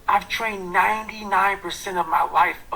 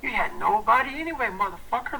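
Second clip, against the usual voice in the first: fired-up self-talk; 3 semitones higher than usual. Retold or imitated. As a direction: spit it at yourself to get fired up. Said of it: "see how I'm talking myself".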